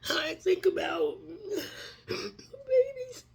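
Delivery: weeping through each word as grief swells; crying while speaking. Real, not acted. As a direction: voice breaking into tears, rising high on babies. Grieving speaker breaking into tears.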